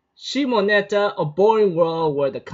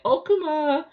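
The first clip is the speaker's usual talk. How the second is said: creepy yandere; 4 semitones higher than usual. Retold or imitated. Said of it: "she goes like".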